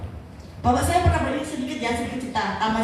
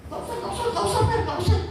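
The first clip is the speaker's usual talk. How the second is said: imitating father waving help away, pitched higher; mock stubborn refusal, repeated; lightly voiced old man refusing a jacket; 9 semitones higher, faster than usual.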